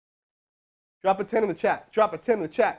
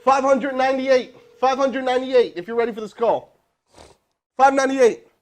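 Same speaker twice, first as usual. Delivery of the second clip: loud, higher hype call-out; hyped; 7 semitones higher, 7 dB louder than usual. Real, not acted. To his stream chat before the next call, loud hype. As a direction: pump up the viewers with the count.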